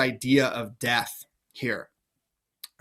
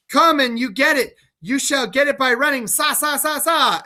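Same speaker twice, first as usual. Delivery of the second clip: taunting mad king; 9 semitones higher than usual. Acted. Lear running from the knights, high and taunting. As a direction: dare them to catch you.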